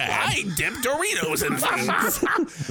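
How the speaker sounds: slow wizard voice. Pretend.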